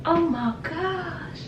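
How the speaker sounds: high, very slow drawn-out oh my gosh; stunned gasp. Real, not acted. Reacting to a singer's horse sounds, stunned and drawn out. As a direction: let it stretch out in disbelief.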